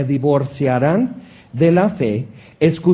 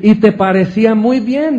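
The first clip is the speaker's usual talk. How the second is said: said through a real laugh, higher and louder; 5 semitones higher, 5 dB louder than usual. Real, not acted. Preacher teases the congregation, laughing. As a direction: laugh while teasing the listener.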